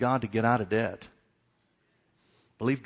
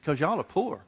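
retold reply through a laugh; laughing punchline; 3 semitones higher than usual. Preacher retelling the golf clerk's answer, laughing. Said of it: "I said".

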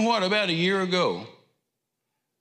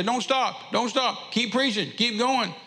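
higher-pitched urging, not really shouted; retold crowd yell; 8 semitones higher, slower than usual. Congregation urging the preacher to keep preaching, retold yell. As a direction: call out eagerly, pitched well up. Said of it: "people yell out and say".

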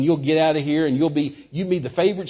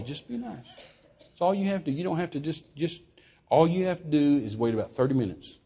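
low, soft self-coaxing; self-talk; 6 semitones lower, 5 dB quieter than usual. Retold or imitated. Preacher telling himself to be nice, quiet low self-talk. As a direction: talk yourself through it quietly. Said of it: "I was telling myself".

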